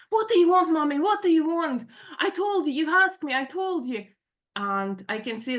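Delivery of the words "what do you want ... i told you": high, loud retold outburst at mom; hurt, angry yell, easing off at the end; screaming out pain. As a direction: imitate an exasperated daughter yelling. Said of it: "She's basically screaming her pain out".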